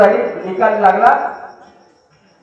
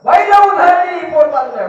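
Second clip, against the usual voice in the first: higher shouted warning that falls away; 5 semitones higher than usual. Retold or imitated. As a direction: yell it from up close. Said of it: "जवळ आला तरी ओरडतच होता".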